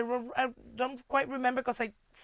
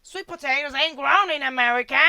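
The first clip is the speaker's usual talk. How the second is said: a light hint of a rural American country accent; 4 dB louder than usual. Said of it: "that's my country accent".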